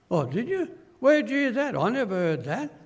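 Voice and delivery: an amazed "where'd you hear that"; surprised gossip. Acted. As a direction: sound caught off guard by the news. Disciples' gossip acted out.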